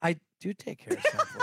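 high, laughing lion-like voice; Cowardly Lion sound. Real, not acted. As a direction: let it leap high through laughter, like a comic lion. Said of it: "You sounded like the lion from Wizard of Oz".

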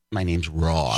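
"Rob" said low with a rounded "aw"; adjusted pronunciation. Retold or imitated. Comedian giving in to the listener, rounded "Rob". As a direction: give "Rob" a rounded "Rawb" vowel. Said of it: "now I have to say Rob".

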